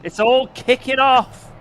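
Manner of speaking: excited. Real, not acted. Crash chaos ahead in race.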